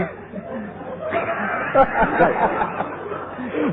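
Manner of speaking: high laugh. Real, not acted. Breaks up laughing.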